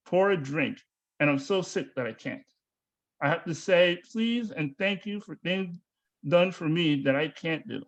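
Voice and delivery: measured poetry recital in short phrases; poem read aloud with falling line ends. Real, not acted. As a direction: read your own poem line by line, pausing between. Reads second poem aloud.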